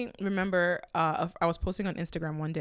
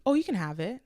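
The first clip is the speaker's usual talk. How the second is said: quick, eager, slightly raised offer of the camera; 4 semitones higher than usual. Retold or imitated. To a friend admiring her camera, eagerly offering it. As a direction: blurt it out to please her. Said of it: "I said immediately".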